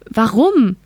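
lightly voiced disbelief, question pushed up; incredulous. A narrator's reading. Nora asks the machine why war returned, mildly incredulous. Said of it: "fragte Nora ungläubig".

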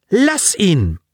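high, sharp order to back off; girl stopping a boy from following his friend, sharp order; sharp command. Acted. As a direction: stop him cold. Daya blocks Colin's way.

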